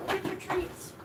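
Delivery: high pet voice. Real, not acted. Owner urging her dog to the treats, high soft coax. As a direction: sweet-talk the dog toward its treats.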